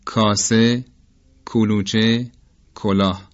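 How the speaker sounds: "کاسه، کلوچه، کلاه" with back k; Arabic-style kaf. Shown as a demonstration. Teacher showing Arabic-like kaf, back k in "کاسه، کلوچه، کلاه". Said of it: "کافشون رو دقیقاً مثل کاف عربی".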